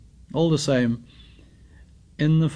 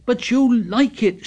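high, loud accusing shout; 10 semitones higher, 4 dB louder than usual. A narrator's reading. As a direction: shout it at him. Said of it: "shouted Ralph".

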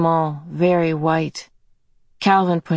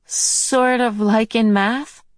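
put-on higher, slow questioning girl; 6 semitones higher, slower than usual. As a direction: ask it tentatively and slow. Meg asks slowly.

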